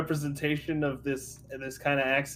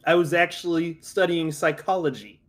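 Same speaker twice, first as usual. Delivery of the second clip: a lightly held New York Italian-American boxer; casual tough-guy Italian-American bragging; Italian-American accent. Acted. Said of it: "just when I'm talking character".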